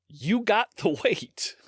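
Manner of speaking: laughing. Real, not acted. Laughing mid-sentence.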